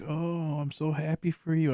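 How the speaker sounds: mock cheerful congratulation; mild mock cheer; fake happiness. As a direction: fake a happy tone. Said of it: "I'm just sitting here like".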